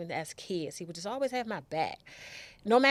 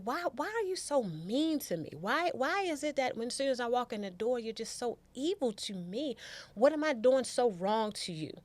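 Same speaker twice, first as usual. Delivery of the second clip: retold plea; 5 semitones higher than usual. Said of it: "I was just like".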